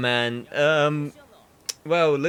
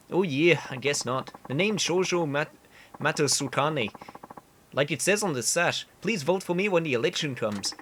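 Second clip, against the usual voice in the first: earnest candidate in bad Canadian; awful Canadian accent; 3 semitones higher than usual. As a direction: campaign talk with a badly faked Canadian accent. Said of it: "I know the accent is awful".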